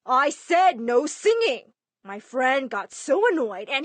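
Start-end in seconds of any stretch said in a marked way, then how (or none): 0.0-1.7 loud, raised angry order; dad screaming. Retold or imitated. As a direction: bark the ban through the door. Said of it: "when Dad banged on my door screaming".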